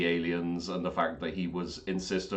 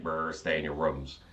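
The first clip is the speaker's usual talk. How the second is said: broken robot guard voice; 4 semitones lower, 5 dB quieter than usual. Retold or imitated. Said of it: "turn up all fucked up".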